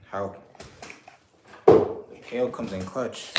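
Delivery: aggressive outburst. Real, not acted. Showing off a paint roller trick, loud and aggressive. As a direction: blurt it out hard like a gamer shouting. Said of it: "Sorry, that was a bit aggressive".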